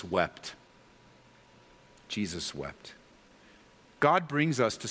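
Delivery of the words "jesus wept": much softer and lower, letting it sink in; softly repeated. Shown as a demonstration. Preacher repeating the verse to the congregation, much softer. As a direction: drop the voice to let the verse land. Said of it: "repeats the verse".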